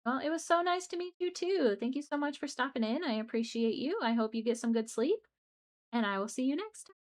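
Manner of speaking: sweet farewell. Real, not acted. Saying goodbye to departing raider.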